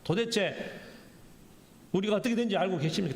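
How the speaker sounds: quick, confronting question; acted, mildly indignant challenge; argumentative demand. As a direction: press for an answer as if picking a quarrel. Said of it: "따지듯이 이야기를 하는 겁니다".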